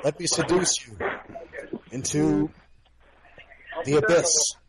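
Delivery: lightly hammed-up seductive croon. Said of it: "sexy baritone voice".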